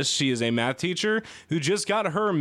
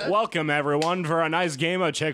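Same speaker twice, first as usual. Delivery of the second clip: radio voice; 2 semitones lower than usual. Pretend. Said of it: "get your radio voice ready".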